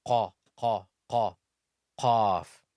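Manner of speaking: qaf squeezed from the upper throat; throaty qaf; qaf drilled. Shown as a demonstration. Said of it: "ejecting the sound of cough".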